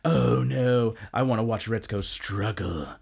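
lightly voiced gloating coworker; understated snide character voice; a hint of a smug villain. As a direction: toss it off with mild mock cruelty. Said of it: "He's like".

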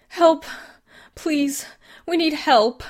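very high, very loud screaming plea; frantic scream for help. Acted. Susan flagging down the truck driver, frantic scream. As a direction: scream it at the stranger.

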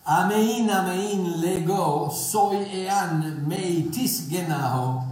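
slow, deliberate Greek with a southern-hemisphere lilt; Greek in South African accent. Shown as a demonstration. Preacher quotes the Greek to listeners, South African accent. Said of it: "my Greek southern accent goes like this".

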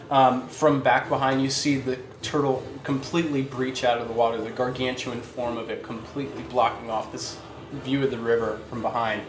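story narration. Acted. Game master scene setting.

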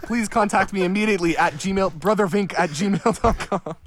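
hammed-up urgent scammer; scam email voice.

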